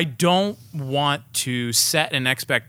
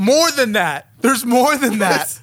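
squeaky exaggerated voice; 8 semitones higher, 6 dB louder, slower than usual.

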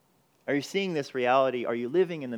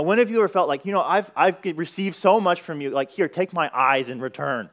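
excited preaching; 3 semitones higher, 6 dB louder than usual. Acted. Preacher voicing grateful believers.

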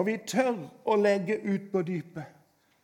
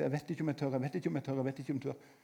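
much softer, lower, fading doubt; hesitant inner voice; 7 semitones lower, 11 dB quieter, faster than usual. Retold or imitated. Imagined listener doubting the call, soft hesitant murmur.

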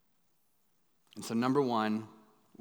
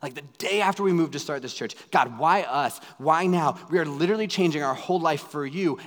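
loud, higher desperate questioning; screaming to God; 3 semitones higher, 5 dB louder than usual. Retold or imitated. Pastor rushing to hospital yelling at God, loud and raw. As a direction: throw the questions at God in anguish. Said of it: "audibly screaming to God".

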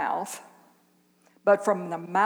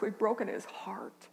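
whispered confession; 6 dB quieter than usual. Real, not acted. Solemn confession in sermon.

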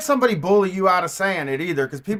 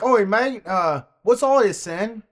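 mock British accent; 4 semitones higher, slower than usual. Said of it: "I could see myself being like".

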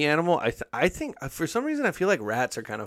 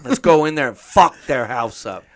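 Boston rat; 3 semitones higher, 5 dB louder than usual. Acted. Rat voiced in Boston accent.

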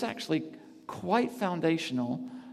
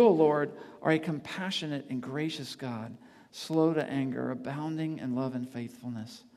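fervent psalm reading. Acted. Reads psalm as a fervent prayer.

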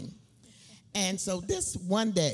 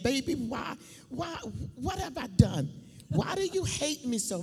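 put-on pleading with baby; 6 semitones higher than usual. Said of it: "I'm sitting there saying".

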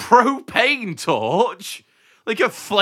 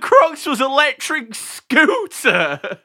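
excited; 10 semitones higher, 7 dB louder than usual. Real, not acted. Continuing absurd reveal.

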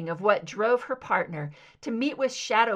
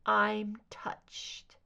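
cool sarcasm. Acted. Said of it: "her voice dripped cool sarcasm".

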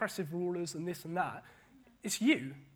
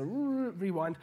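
rewind noise; slower than usual. Acted. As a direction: mimic a tape winding back. Mimics rewinding back to the quote.

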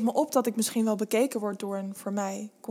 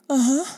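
higher, louder moaned uh-huh; moaning assent; 5 semitones higher, 5 dB louder than usual. A narrator's reading. Narrator answering her lover, moaning. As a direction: moan a yes, pitched up. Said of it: "zeg ik kreunend".

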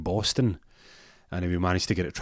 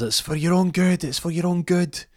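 mock menacing voice; 11 semitones higher, 5 dB louder than usual. Hernandez voiced, locking Rory in.

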